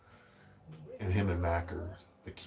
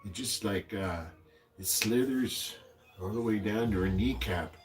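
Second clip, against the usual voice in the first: put-on old man voice. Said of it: "the old man voice".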